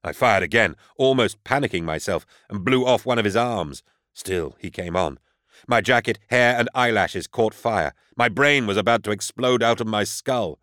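ordinary delivery

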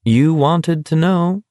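easy and friendly, almost kind; almost genial. A narrator's reading. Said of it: "almost genially".

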